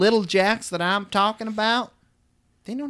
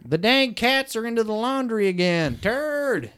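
higher, fussing mother's call; mother fussing at the cats; scolding mom; 6 semitones higher, slower than usual. Retold or imitated. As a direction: complain like a fed-up mother.

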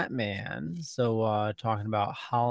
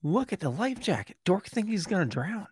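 mocking; 6 semitones higher, faster than usual. Mocking character in comic.

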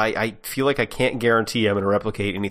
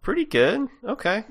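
duck voice; 12 semitones higher than usual. Shown as a demonstration. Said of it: "let me try".

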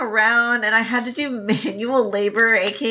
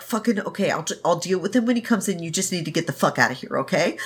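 softer, fast, frightened hurry; hurried frightened plea, kept softer; scared urgent hush; 3 semitones lower, 4 dB quieter, faster than usual. Retold or imitated. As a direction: rush it out quietly like she's terrified. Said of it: "she's terrified".

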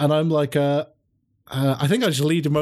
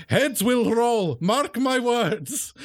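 slow, higher theatrical threat; drawn-out villainous vow; ominous vampire; 7 semitones higher, much slower than usual. Acted. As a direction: pronounce doom slowly and grandly. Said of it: "I'm like".

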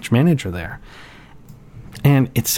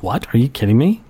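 imitating a stunned technician, rising in pitch at the end; mildly acted incredulous questions; naive disbelief; 3 semitones higher than usual. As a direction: react like you truly had no idea. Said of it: "Pacific Northwest naivete".

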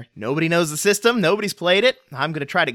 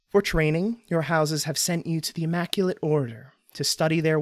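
story narration. Acted. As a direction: set the scene like an epic tale. Game master's scene setting.

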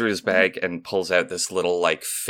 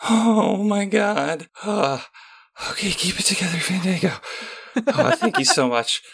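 high, giddy and halting; squeaky awe, trying to hold it together; overwhelmed fan excitement; 12 semitones higher, 3 dB louder than usual. Acted. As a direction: starstruck gushing with nervous false starts. Starstruck fan receives the autograph.

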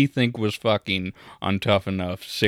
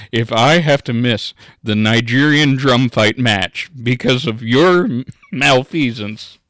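loud, raised-pitch imitation of an outraged caller; mock phone tirade; 4 semitones higher, 9 dB louder than usual. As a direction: bellow an indignant complaint, hammed up. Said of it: "You should have heard Casey on the phone".

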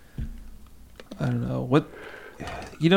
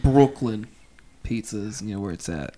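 put-on Brooklyn accent; 2 semitones lower, 3 dB quieter than usual. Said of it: "a Brooklyn accent?".

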